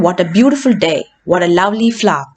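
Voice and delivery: mild exclamation sliding down on "day" and "flower"; falling exclamations. Shown as a demonstration. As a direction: let "day" and "flower" drop. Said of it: "It has a falling tone".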